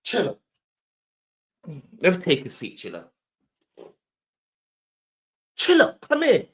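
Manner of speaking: mock Beezy calling his man over, bossy; imitating Beezy. Showing how Beezy pulls up, mock bossy call. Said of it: "I'm gonna show you how Beezy pull up".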